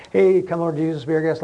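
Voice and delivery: mock offhand table grace; imitating a dashed-off mealtime blessing; quick, careless prayer. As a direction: rattle it off like a throwaway prayer. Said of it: "not like a quick prayer".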